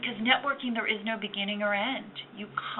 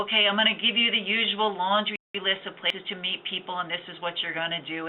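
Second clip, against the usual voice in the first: monotone voice. Retold or imitated. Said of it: "it goes in a monotone voice like that".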